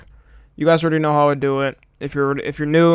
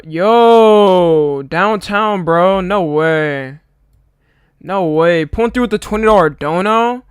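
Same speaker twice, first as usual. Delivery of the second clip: hyped thanks; 3 semitones higher, 4 dB louder, slower than usual. Real, not acted. Big twenty dollar donation arrives.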